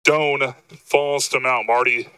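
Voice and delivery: winded after running upstairs; puffing between phrases; out of breath. Real, not acted. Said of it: "I'm a little bit out of breath right now".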